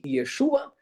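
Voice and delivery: "Yeshua" said as "yeh-SHOO-ah"; "Yeshua" sounded out, yeh-SHOO-ah; Hebrew pronunciation. Shown as a demonstration. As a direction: give "Yeshua" a Y opening and stressed middle. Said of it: "no hebraico".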